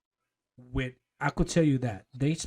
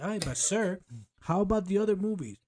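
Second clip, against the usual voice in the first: higher-pitched worried employee; questioning underling; 6 semitones higher than usual. Acted. Employee asking the CEO about other movies, higher questioning voice. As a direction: pipe up with a timid challenge to the boss.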